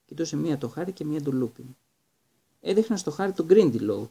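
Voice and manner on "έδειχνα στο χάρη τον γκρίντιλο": cheerful, higher and louder; pleasant. A narrator's reading. Teacher showing his colleague the tank, pleasant. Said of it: "του είπε ευχάριστα ο Λούπιν".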